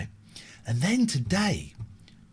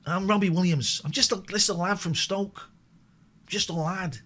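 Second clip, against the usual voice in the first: a hint of a cheeky lad from Stoke; impression of a pop singer. Host mimics a pop singer for the chat, lightly voiced lad. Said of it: "Is that how he talks?".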